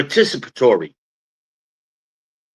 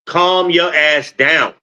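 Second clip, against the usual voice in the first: slow, raised, authoritative; 4 semitones higher, slower than usual. Real, not acted. The boss in here telling the women to calm down, slow and raised. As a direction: lay down the law from the top. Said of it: "I'm just raising my voice".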